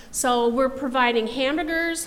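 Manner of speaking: ordinary talk, nothing marked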